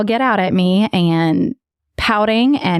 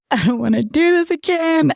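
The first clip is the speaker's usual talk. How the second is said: put-on whiny kid voice; 7 semitones higher than usual. Kids in tears skiing.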